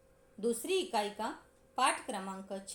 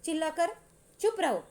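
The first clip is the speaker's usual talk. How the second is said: put-on raised, louder scolding of crying boys; angry scolding; 5 semitones higher, 5 dB louder than usual. Raat Rani scolds the crying boys, angry and loud. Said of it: "गुस्से से कांपने लगती है कि".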